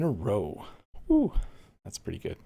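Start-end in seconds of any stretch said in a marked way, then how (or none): 1.1-1.3 cheer. Real, not acted. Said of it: "I just cheered into the mic".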